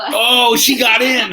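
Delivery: laughing through the words; giggling as she speaks. Real, not acted. Laughing while commenting.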